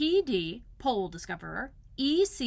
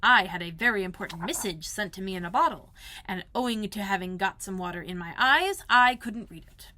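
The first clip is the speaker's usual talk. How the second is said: proud. Acted. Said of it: "With these proud words".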